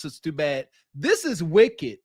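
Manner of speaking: ordinary delivery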